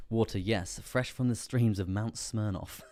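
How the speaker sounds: mock British accent. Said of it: "like, British in an accent".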